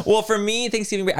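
talking while laughing. Real, not acted. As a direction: still giggling as you restart. Still laughing after joke.

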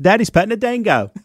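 high, put-on British-Australian girl's voice; mock British-Australian accent. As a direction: daughter teasing dad in a British-Australian accent. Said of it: "foreign accent".

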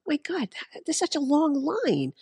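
annoyed at the long line; frustrated. Retold or imitated. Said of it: "aggravated and frustrated".

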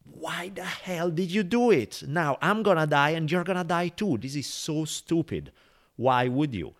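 high, pleading cry of the doomed frog; hammed-up frog, outraged and desperate; frog in dismay. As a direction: frog wailing at the scorpion, high and aghast. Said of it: "the frog is like".

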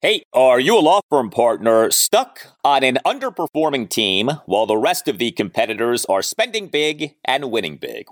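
lively sponsor ad read. Acted. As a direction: sell it like a radio spot. Host reads sponsor ad.

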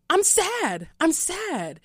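a hammed-up tiny sad voice; high little voice. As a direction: whimper it like a sulking child. Retelling own sad reply, high voice.

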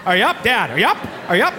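put-on whiny little kid calling; child voice. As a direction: kid nagging dad awake. Kid voice waking dad.

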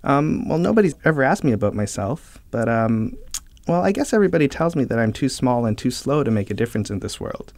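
lightly voiced timid little snail. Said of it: "says the snail".

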